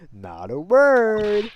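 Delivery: stern order. Retold or imitated. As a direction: bark the order word by word. Quoting prosecutor's strict order.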